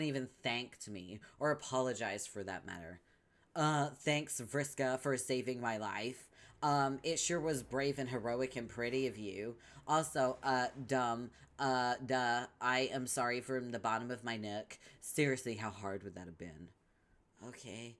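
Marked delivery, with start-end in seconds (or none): 3.5-14.8 mocking imitation. Vriska mocking Tavros's apology.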